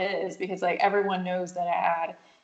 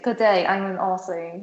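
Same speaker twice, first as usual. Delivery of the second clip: mock Australian accent. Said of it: "like that type of thing".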